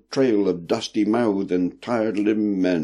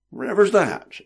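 put-on old sailor voice; 11 semitones higher than usual. A narrator's reading. Old sailor asks, surprised.

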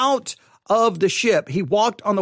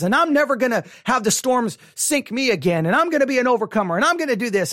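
hurried imitation of worked-up churchgoers; mock excitement, resolutions tumbling out in a rush; excited congregation. Preacher mimicking people fired up by a sermon, excited. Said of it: "get people excited, and they're like".

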